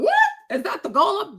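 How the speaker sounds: high startled gasp of disbelief; surprised. Retold or imitated. Viewer startled watching Golem fight. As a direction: sound stunned at the sight. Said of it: "you're like".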